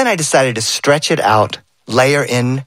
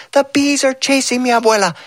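put-on higher, breathless frightened child; scared boy; 11 semitones higher than usual. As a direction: shout it while running from bees.

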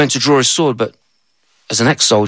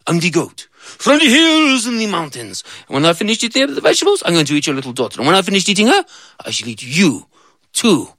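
menacing goat; 5 semitones higher than usual. Acted. Goat threat.

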